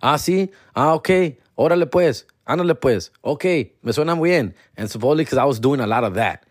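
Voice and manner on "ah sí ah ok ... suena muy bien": higher-pitched acting out of easy agreement; going along agreeably. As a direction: nod along in short, upbeat replies. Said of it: "I was just, like, agreeing".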